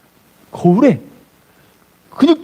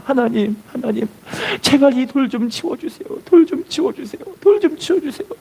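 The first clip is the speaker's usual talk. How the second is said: put-on pleading boy; 5 semitones higher than usual. Boy's pleading prayer voiced.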